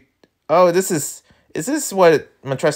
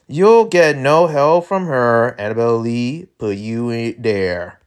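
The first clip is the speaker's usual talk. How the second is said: lightly drawled cowboy villain; slow country drawl, lightly put on; Southern drawl character; 4 dB louder, slower than usual. Voices Montresor.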